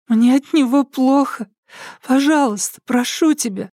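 put-on high, begging little-girl voice; high pleading. A narrator's reading. Alka begs the psycho to turn off the light, high and pleading. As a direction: beg him gently, childlike. Captive begs her captor.

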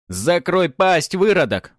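яростный рык, громче, выше и медленно; гаркнуть, затыкая пленника; рявкнуть. A narrator's reading. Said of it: "рявкнул тот же мужик". (бандит со щетиной рявкает на героя)

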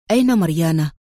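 low, composed inquiry; calm question. A narrator's reading. Adham starts the car and asks Bronco, calmly. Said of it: "ثم سأله في هدوء".

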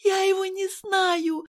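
high, slow frightened outburst; hoarse blurt. A narrator's reading. Nurse to Kirill, high frightened blurt. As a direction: blurt it out in fear. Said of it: "хрипло выпалила медсестра".

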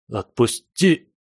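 forcing each syllable out; slow, syllable by syllable. Acted. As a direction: breathe it out syllable by syllable. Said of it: "выдохнул я по слогам".

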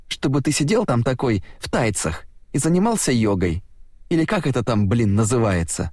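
high, jeering taunt; mock him to his face. Uffe taunts Mehmed, high pitch.

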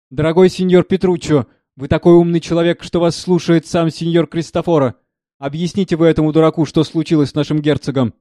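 butter up the steward; fawning servant. Acted.

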